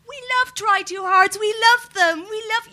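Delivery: hammed-up fan enthusiasm; mock gushing crowd. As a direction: gush like an overexcited crowd. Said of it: "Everybody's like".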